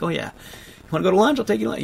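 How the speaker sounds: a light take on Corey inviting him to lunch; imitating friend Corey. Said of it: "would always be like".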